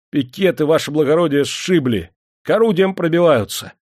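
high, loud battle alarm; urgent report. A narrator's reading. Sergeant reports pickets overrun to major, urgently. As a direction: shout the news to your commander.

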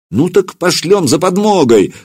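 high eager cry; exclamation. A narrator's reading. Putyata eagerly proposes sending for help, high. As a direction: exclaim it with zeal. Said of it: "воскликнул Путята".

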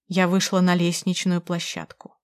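ordinary delivery, nothing marked

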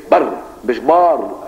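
بر said short and clipped, then بار with a long drawn a; slow teaching contrast of بر and بار; short vs long vowel. Shown as a demonstration. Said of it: "بر كده".

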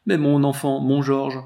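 put-on anguished cry for a child; sobbing exclamation. A narrator's reading. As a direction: cry out for your son, distraught. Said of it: "s'écria la jeune veuve en sanglotant".

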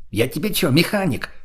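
возмущённый вопрос, повыше; огрызнись с обидой, подняв тон к концу; возмущение. A narrator's reading. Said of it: "возмутился тот". (слегка возмущённо, высоким голосом)

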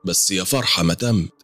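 put-on chatty older client. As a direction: explain yourself as a garrulous older woman.

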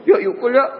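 high, loud, lively call to a friend; playful invitation. Acted. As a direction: call a friend over in mixed slang. Acted Arabic-slang chat between friends. (ajakan riang bernada tinggi)

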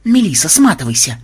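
urgent holler; urgent warning. A narrator's reading. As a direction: shout to a friend to flee.

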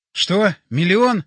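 loud, baffled question; urgent questioning. A narrator's reading. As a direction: demand what he means. Straining to understand dying friend.

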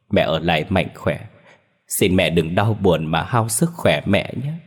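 mildly tearful, with pauses between phrases; tearful farewell. Acted. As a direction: hold back tears while saying goodbye. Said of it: "Anh rơm rớm nước mắt đỏ hoe". (rơm rớm nước mắt, nghẹn ngào từ biệt)

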